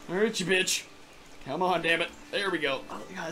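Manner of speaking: ordinary talk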